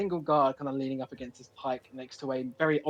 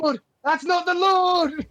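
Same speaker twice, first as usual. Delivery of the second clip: laughing exclamation; 12 semitones higher, 4 dB louder, much slower than usual. Real, not acted. Guard flees, GM laughs.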